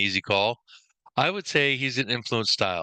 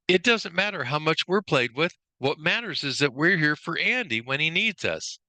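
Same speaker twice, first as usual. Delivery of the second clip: lightly acted toy cowboy, pitched higher; earnest movie line in a higher voice; Woody; 5 semitones higher than usual. Trainer quoting the toy's line about Andy, lightly acted. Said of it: "The line in the movie that I think helps identify him".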